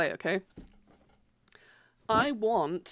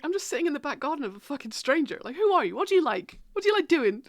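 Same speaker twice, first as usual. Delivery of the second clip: mock incredulous; 5 semitones higher, 3 dB louder than usual. Acted quote to friend.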